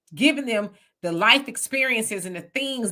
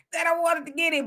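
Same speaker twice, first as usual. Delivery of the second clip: laughing through words; 6 semitones higher than usual. Real, not acted. Laughing at own joke.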